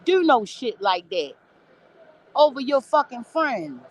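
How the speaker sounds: imitating the junkie. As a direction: stretch it out like the impressed old junkie. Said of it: "He was like".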